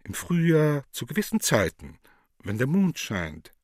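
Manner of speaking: put-on rising furious old man; building rage, pitch climbing; angry. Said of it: "Der Alte schaut immer zorniger".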